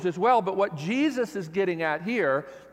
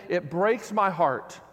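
aching; 3 dB louder than usual. Retold or imitated. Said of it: "hear the ache in his voice".

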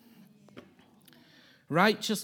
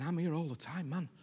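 the Father, eager. Retold or imitated. The Father assuring his elder son, swelling eager. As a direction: let the invitation swell to a ringing promise. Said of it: "The Father was saying".

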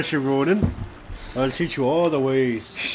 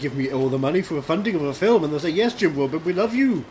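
put-on lightly Irish accent. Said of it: "I'm losing my accent".

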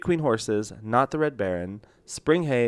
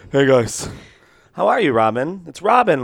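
excited; 5 semitones higher, 7 dB louder than usual. Real, not acted. Excited greeting to co-host.

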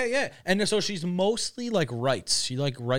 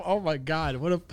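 rising into a mock-eager yes; inner excited thought; 3 semitones higher, 4 dB louder than usual. Thinking to himself about the girl, mock-eager rising. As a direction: ham up the thrilled inner voice as it climbs. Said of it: "I'm thinking to myself".

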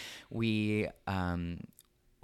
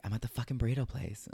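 raised, fast mock of a friend's irritated reply; mocking impression; 5 semitones higher, faster than usual. Mocking how her friend answered the phone. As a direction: toss it off high and quick, like the friend did.

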